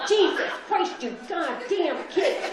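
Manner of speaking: lightly voiced cursing parent; swearing mom. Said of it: "parents were just, like, hitting and swearing".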